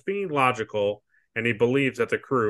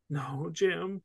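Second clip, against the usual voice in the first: mild sad plea; 6 semitones higher, 8 dB quieter than usual. Retold or imitated. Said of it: "like, he's sad".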